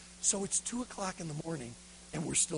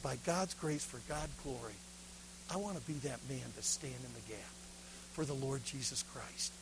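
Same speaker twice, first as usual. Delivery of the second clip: low, soft vow to God; hushed retold commitment; solemn prayer; 5 semitones lower, 9 dB quieter than usual. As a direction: pray it quietly and earnestly.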